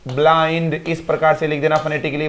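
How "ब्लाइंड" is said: ब्लाई drawn out slowly; slow breakdown. Shown as a demonstration. Teacher splits the word slowly for pupils. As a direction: stretch ब्लाई slowly, part by part. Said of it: "ब्लाइंड को लिखेंगे तो कैसे लिखेंगे".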